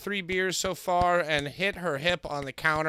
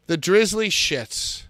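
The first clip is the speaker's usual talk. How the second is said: loud slow complaint; 3 semitones higher, 8 dB louder, slower than usual. Real, not acted.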